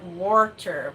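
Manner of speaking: water as WAR-ter, extra R; water with second R. Shown as a demonstration. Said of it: "with a second R".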